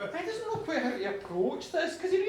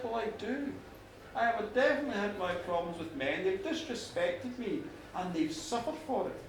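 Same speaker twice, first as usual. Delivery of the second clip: lightly voiced goddess, lower and measured; solemn goddess; 5 semitones lower, 4 dB quieter than usual. Goddess telling farmer he earned her respect, solemn and measured. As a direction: speak with quiet, deliberate sincerity.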